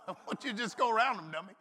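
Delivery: fast, laughing version with dummy tacked on; teasing with a laugh. Retold or imitated. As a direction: toss in dummy as a chuckling jab. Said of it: "there was a dummy added in on the end".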